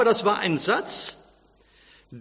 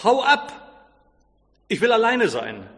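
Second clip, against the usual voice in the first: inner scream; 3 semitones higher than usual. A narrator's reading. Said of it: "wollte er eigentlich schreien".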